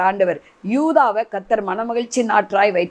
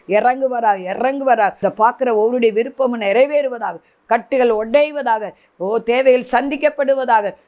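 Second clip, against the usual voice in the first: fervent prayer. Real, not acted. Preacher prays blessings over the congregation, fervent prayer. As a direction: pray with urgent conviction, petition after petition.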